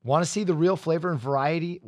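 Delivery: ad read. Real, not acted. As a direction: pitch it like sponsor copy. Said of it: "do an ad read".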